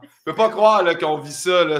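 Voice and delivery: high, loud mock panic; laughing in disbelief; excited disbelief. Real, not acted. Shirt on backwards on podcast.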